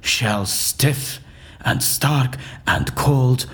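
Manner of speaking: slow, solemn Shakespearean declamation; theatrical verse recitation. Acted. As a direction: recite the verse like a stage actor casting a spell. Recites Shakespeare's potion speech.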